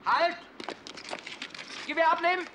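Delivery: barked command. Acted. Militärkommando auf der Straße.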